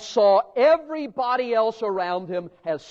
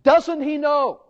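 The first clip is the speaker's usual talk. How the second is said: mock indignation. Mocking crowd's disdain.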